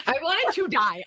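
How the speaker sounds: dramatic, mortified storytelling; emphatic embarrassment. Real, not acted. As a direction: blurt out the mortification at a normal pace. Retelling her embarrassment, first take.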